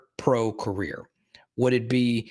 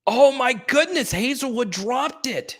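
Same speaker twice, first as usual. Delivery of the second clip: high, loud burst stretching into drawn-out dismay; high-pitched stunned reaction; shocked disbelief; 12 semitones higher, 4 dB louder, slower than usual. Real, not acted. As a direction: cry out in real disbelief at a dropped catch. Reacting to a dropped catch.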